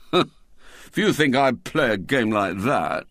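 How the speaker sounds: put-on slow, scornful boy; disdainful schoolboy; William, coldly. A narrator's reading. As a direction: begin a cold refusal. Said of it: "he began coldly".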